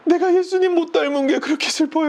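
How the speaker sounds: high, wailing mock sob; mock crying. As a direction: bawl the words in imitation, stretching the ending. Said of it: "울어". (높게 울먹이는 흉내)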